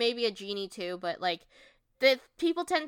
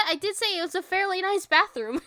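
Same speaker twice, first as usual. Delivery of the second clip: laughing; 10 semitones higher, 7 dB louder than usual. Real, not acted. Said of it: "defending herself laughing".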